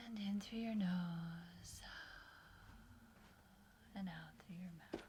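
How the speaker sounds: unhurried, breath-led relaxation guidance; guided meditation. Acted.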